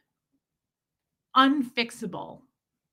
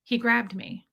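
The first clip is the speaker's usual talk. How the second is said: slow, retold confession on the edge of crying; understated upset, drawn-out words; holding back tears; slower than usual. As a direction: say it trying not to cry. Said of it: "I'm shaking my voice, and I'm trying not to cry".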